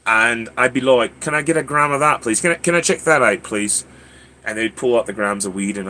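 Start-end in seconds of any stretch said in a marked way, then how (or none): 1.2-3.8 mimed British customer, higher at the start; British accent. Retold or imitated. Tourist asking at an Amsterdam coffee shop, British accent. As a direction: order politely in a put-on British accent. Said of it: "I spoke with a British accent".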